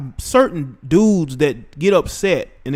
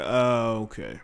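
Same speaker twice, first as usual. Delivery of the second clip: low, soft, deflated "okay"; deflated reaction; 6 semitones lower, 4 dB quieter, slower than usual. Retold or imitated. Recalling hearing about the Deadpool character, deflated. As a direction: let it sink low and quiet, mildly put off. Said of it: "That's when I was like".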